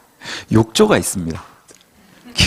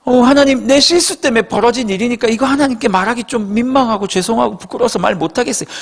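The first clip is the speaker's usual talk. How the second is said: timid confession; 4 semitones higher than usual. Retold or imitated. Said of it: "거의 이렇게 간다고요".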